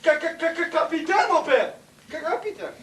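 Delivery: stammers on the first syllable; words stuck, tripping out; stuttering. Acted. Wounded man struggles to speak. (bégaiement)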